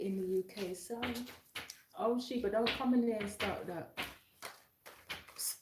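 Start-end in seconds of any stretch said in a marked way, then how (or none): 2.0-4.0 raised voice at the cat; calling out. Real, not acted. Scolding the cat off camera. 5.4-5.5 sharp psst to shoo a pet; psst for attention. Real, not acted. Hissing at the cat.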